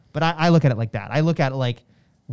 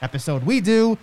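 ringmaster; 4 semitones higher than usual. Acted. Host mimics announcer intro.

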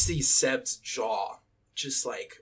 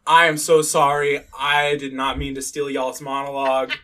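emphatic, projected apology; loud acted apology; 9 dB louder than usual. H apologizes to the women in the room, acted loud and earnest. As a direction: announce the apology loudly to everyone.

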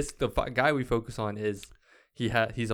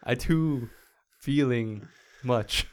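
robot faking human; much slower than usual. Pretend. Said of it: "way to make it robotic as fuck".

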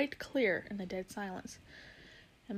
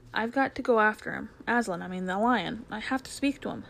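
urgent Diggory; 5 dB louder than usual. Acted. Diggory urgently tells Polly.

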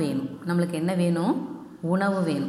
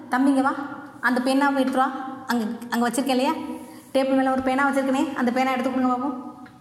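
higher-pitched teacher calling a pupil over; acted-out request; 4 semitones higher than usual. Shown as a demonstration. Teacher asks a boy to fetch the pen from the table, acted-out request. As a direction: call a young boy over, pitched up a little.

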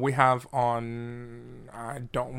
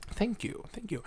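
high soft flattered thanks; 9 semitones higher, 9 dB quieter than usual. Real, not acted. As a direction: coo your thanks. Flattered by compliment.

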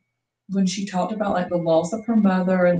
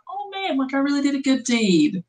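gushing self-satisfaction; 7 semitones higher than usual. Acted. Voicing the feel-good reaction.

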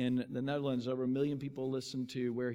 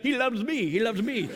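raised, higher retold shout; joining the shouting; 7 semitones higher, 6 dB louder than usual. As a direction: imitate a friend chiming in loudly. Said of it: "And Lars".

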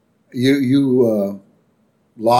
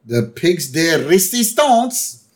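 higher announcer-like Homer; Homer announcing; 8 semitones higher than usual. Retold or imitated. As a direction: present the grand dish. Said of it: "he goes".

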